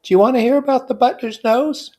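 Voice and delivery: high, loud eager confiding; high excited confiding; enthusiastic whisper. A narrator's reading. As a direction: lean in with gossip. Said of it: "she whispered enthusiastically".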